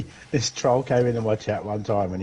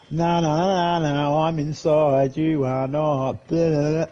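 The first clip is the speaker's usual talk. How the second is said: mock scolding cat; 6 semitones higher, 4 dB louder, slower than usual. Voicing himself telling cat off.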